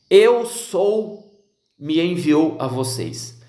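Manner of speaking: slow, grave divine pronouncement; solemn voice of God. Acted. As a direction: let each word land like God speaking from the mountain. Deus falando a Moisés, solene. (voz solene e lenta de Deus)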